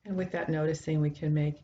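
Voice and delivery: calm, measured guidance with long pauses between phrases; guided meditation. Acted. Teacher guiding listeners into a breath meditation, calm and unhurried. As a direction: lead the sitters gently, leaving space to breathe.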